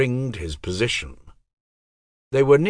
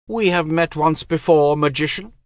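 high, cold and commanding; a goddess speaking with frozen calm; icy goddess voice; 8 semitones higher, 5 dB louder than usual. Acted. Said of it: "came the icy voice".

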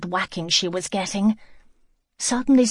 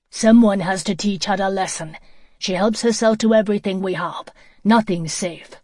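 angry complaint; 5 dB louder than usual. Acted. Angry man complains to wife.

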